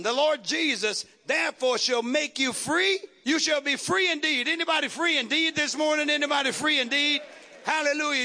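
driving, rousing preacher delivery; fervent preaching. Real, not acted. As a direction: preach it out to the congregation. Preaches to congregation.

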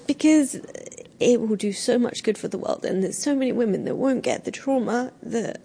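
moved to tears, pausing to carry on; choked up, halting and sincere; real tearful voice. Real, not acted. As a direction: talk through the crying. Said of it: "I know I'm crying now".

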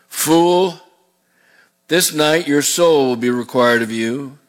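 slow, grave rebuke; solemn scripture reading. Acted. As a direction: pronounce judgment slowly and gravely. Reads God's rebuke.

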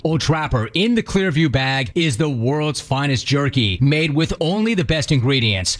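steady, scripted radio sponsor read. Acted. Host pitches beef jerky to his listeners, ad read. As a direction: sell it like a host-read commercial.

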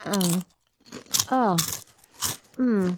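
drawn-out moan over a crunchy bite; savoring eater's moan; pleasurable moan. Real, not acted. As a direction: moan at the taste of potato chips. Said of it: "quite a moan there".

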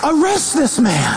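half-laughing demand for arrest; mock outraged shout. Crowd mocking the believer, laughing, shouting for arrest. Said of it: "people would go".

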